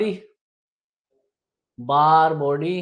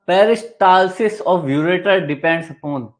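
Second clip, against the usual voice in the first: slow question read; 6 dB louder, much slower than usual. Shown as a demonstration. Teacher reads next quiz question.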